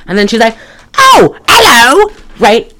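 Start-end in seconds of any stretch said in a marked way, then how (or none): 1.0-2.1 high, slow, hammed-up bad accent greeting; a mock posh greeting pitched high; terrible accent. Mimicking the singer in the film, hammed-up bad accent. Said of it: "Terrible accent for me".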